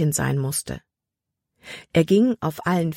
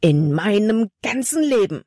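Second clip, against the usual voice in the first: raised, furious scolding; angry outburst; 5 semitones higher than usual. A narrator's reading. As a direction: let the anger burst out. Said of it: "Sein Gesicht war zornerfüllt".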